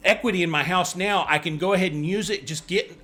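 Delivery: frantic buyer. Pretend. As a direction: ham up a frantic covid buyer. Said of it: "I'm just going crazy today".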